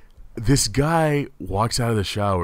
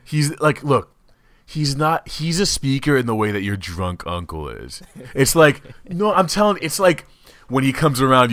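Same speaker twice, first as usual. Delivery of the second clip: ordinary talk, nothing marked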